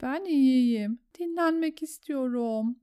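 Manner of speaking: high, weary pleading; exhausted Sam. A narrator's reading. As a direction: plead to be left resting. Exhausted Sam begs rest. (tiz, bitkin yakarış)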